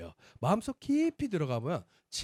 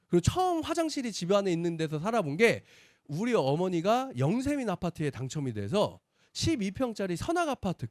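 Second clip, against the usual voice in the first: normal talking voice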